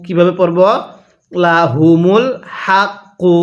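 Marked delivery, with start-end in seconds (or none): 1.3-3.3 হাক্কু stopped, drop the final u at the pause; লাহুমুল হাক্কু ending cut short on qaf; pause on the last word. Shown as a demonstration. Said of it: "ওয়াকফ করলে".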